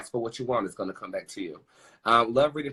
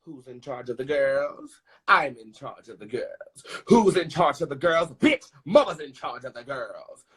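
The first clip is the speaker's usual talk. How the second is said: diva call and response. Acted.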